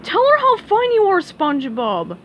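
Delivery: very high, loud protest; cried out. Acted. Patrick chasing Sandy, loud high cry. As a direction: cry it out while running.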